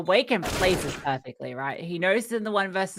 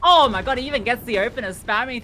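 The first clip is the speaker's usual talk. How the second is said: excited exclamation; 4 semitones higher, 6 dB louder than usual. Real, not acted. Caster reacting to the play.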